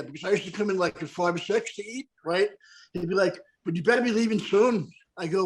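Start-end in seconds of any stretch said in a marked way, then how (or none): 3.6-4.9 lightly imitated Irish bartender; Irish brogue. Bartender warning a customer to leave, Irish brogue. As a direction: warn in a put-on Irish brogue. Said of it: "Irish brogue".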